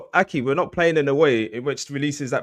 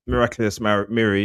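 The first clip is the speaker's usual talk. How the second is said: slurring words. Real, not acted. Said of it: "yes, I'm slurring my words".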